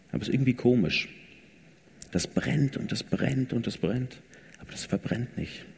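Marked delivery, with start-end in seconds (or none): 2.1-5.6 awed whisper about the bush; hushed whisper. A narrator's reading. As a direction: whisper it like a secret wonder. Burning bush told in hushed awe.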